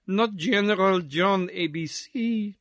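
animated, lilting society belle; lightly accented chatterbox belle; dancing society lady. Acted. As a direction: ask it as light ballroom gossip. Missus Pirouette chats while dancing.

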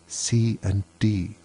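slow, soft, cautious half-whisper. A narrator's reading. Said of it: "she added in a whisper".

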